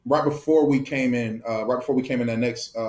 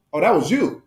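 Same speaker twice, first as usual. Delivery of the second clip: higher-pitched retold realization; dawning realization; 5 semitones higher, 3 dB louder than usual. Player recalling he recognized the viral recruit, mildly surprised. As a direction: lightly act out the penny dropping.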